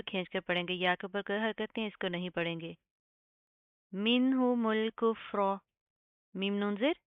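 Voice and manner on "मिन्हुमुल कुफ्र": slow, drawn-out tajweed chant; Quranic recitation. Shown as a demonstration. Teacher models the verse slowly for students. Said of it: "recitation demo".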